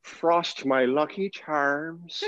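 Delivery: very slow, dreamy Irish accent; drugged leprechaun drifting through poetic Irish; languid poetic Irish. Shown as a demonstration. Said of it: "languid, poetic Irish accent".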